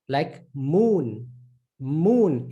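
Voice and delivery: moon with a long hummed m; "moon", m like English; clear M sound. Shown as a demonstration. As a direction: say "moon" with the lips closed on the m. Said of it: "exactly like the M in English".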